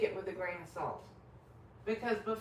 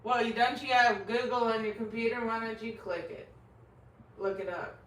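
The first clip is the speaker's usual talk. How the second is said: snarky demo; 3 semitones higher, 4 dB louder than usual. Pretend. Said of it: "I don't talk like that in real life".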